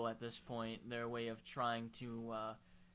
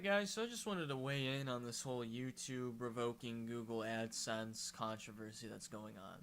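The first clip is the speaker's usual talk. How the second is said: talking through hiccups; hiccuping mid sentence. Real, not acted. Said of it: "If I'm hiccuping".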